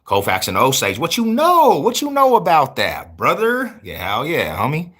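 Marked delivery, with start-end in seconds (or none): 1.0-3.8 high, loud hype shout; excited street-interview holler; hyped up. Real, not acted. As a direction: hype the crowd up, pitch way up.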